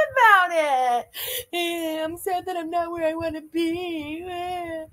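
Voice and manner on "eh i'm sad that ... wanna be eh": higher, soft whiny mockery of her; mocking whine. Host mimics Chantal's complaint in a sneering whine.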